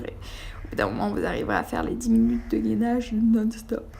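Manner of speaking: parler pendant un bâillement; phrase étirée par un bâillement; en bâillant. Real, not acted. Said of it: "Oh, pardon, je baille". (voix qui bâille)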